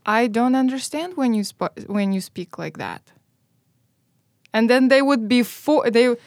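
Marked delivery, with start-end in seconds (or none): 0.0-3.0 calm. Retold or imitated. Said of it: "look at them very calmly and say".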